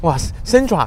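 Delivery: high, gushing, scripted-sounding host voice.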